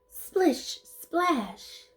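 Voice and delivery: high, bouncy sound words; playful sound effect. Acted. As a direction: sing it like splashing water.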